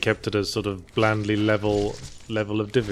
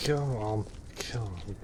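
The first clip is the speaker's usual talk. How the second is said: urgent whisper under the breath; 12 dB quieter than usual. Real, not acted. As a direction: whisper it, willing it on. Urging game physics, whispered.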